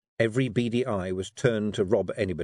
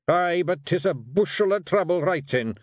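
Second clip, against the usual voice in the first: growling Rob; 9 semitones higher, 4 dB louder than usual. Acted. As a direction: growl out your disgust at letters. Rob's voice.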